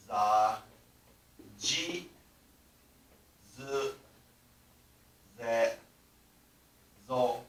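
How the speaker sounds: za, ji, zu, ze, zo each spaced out; z syllables. Shown as a demonstration. Teacher demonstrating the z row. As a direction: sound out za, ji, zu, ze, zo one by one. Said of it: "this turns into".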